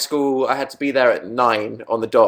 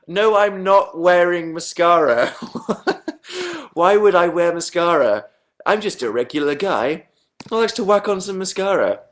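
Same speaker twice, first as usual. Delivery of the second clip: real giggles breaking out between higher-pitched phrases; giggly, worked up; 4 semitones higher than usual. Real, not acted. Vlogger denying a viewer's makeup accusation, giggly and worked up. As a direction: protest through helpless laughter, pitched up. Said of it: "I need to calm down".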